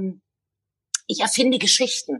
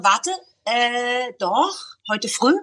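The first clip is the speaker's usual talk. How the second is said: mock retort; much slower than usual. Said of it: "Die klassische Antwort wäre".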